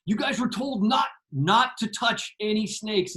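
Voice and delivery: mock freak-out warning; mildly freaked-out scolding. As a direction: retell a panicked telling-off, pitch up. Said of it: "the camera guy just freaked out".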